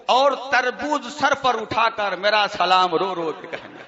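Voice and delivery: reciting absurd verses to an amused crowd; mock poem recitation. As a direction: rattle off the list in verse, amused. Recites mocked salaam verses.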